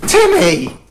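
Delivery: loud, high yell; shout. Acted. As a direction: bellow the name. Teacher yells at bleeding kid.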